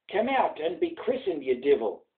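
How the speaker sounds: angry father's call. Acted. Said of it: "cried loud in his haste".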